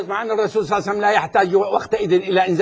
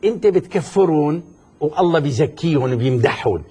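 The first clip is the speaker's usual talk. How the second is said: Shami dialect in a lowered pitch; Levantine dialect; 5 semitones lower than usual. Real, not acted. Debater pressing his opponent for an answer, in Levantine dialect. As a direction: drop lower and say it in everyday Syrian Levantine. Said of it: "بدي كلمك بالشامي اليوم".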